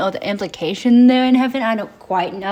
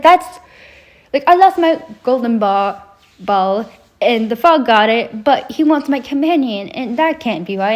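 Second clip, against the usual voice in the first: put-on whiny girl voice; 2 semitones higher than usual. Girl complains to king.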